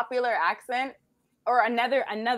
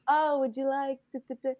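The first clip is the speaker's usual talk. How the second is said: slowed for a foreigner; 6 semitones higher than usual. Retold or imitated. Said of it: "They're like".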